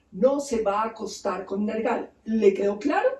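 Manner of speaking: a firm, deliberate prohibition; stern warning. Retold or imitated. God gives Nergal the final rule, stern warning. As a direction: spell out the last rule, then check it landed. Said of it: "le advierte".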